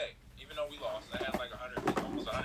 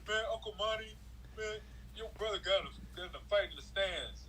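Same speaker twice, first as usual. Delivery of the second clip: put-on higher kid voice telling on his uncle; a lightly voiced kid, raised pitch; upset nephew; 7 semitones higher than usual. Nephew tells his uncle about the fight, in a higher voice. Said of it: "stink eye look".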